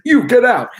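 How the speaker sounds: shouting get out at Elvis; sharp high yell; angry old man. Retold or imitated. Old man yelling at Elvis to get out. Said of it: "and he goes like".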